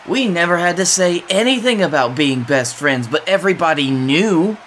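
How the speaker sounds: a hint of a heel promo, deliberate and taunting; lightly voiced wrestler trash talk; wrestling promo. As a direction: cut a promo on your rivals. Wrestler cuts promo on rivals.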